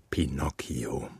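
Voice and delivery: soft whispered name. Real, not acted. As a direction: breathe the name gently. Father says goodnight name softly.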